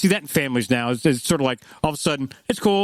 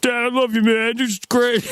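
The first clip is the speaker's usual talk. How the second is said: choked-up daughter; 10 semitones higher than usual. Retold or imitated. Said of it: "she got all choked up".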